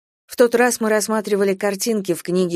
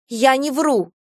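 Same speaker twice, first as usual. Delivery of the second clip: defiant denial; 6 semitones higher, slower than usual. A narrator's reading. Girl denies lying.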